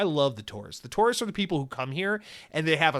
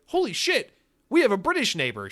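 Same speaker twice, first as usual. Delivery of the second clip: excited; 8 semitones higher, 5 dB louder than usual. Retold or imitated. Excited realization about neighbor.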